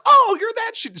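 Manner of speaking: high, loud scoffing recognition; mock outburst. Recognizing a bad actor on screen, a loud scoff. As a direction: blurt it out in mock disgust. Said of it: "I was like".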